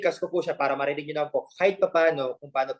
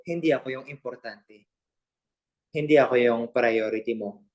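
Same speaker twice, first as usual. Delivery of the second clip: mock heartbroken; 5 semitones lower than usual. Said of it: "Okay, serious na po".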